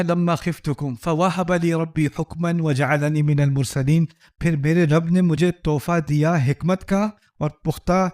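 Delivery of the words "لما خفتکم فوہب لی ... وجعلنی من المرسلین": slow, measured recitation of the verse; Quranic recitation. Shown as a demonstration. Preacher quoting the Quran to listeners, slow recital. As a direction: intone it slowly like scripture. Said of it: "کہتے ہیں،".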